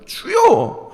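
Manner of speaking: high, loud pleading to God; David's lament, read as a desperate plea; lamenting cry. Acted. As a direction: cry out to the Lord in anguish. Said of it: "이렇게 탄식하시지 않습니까".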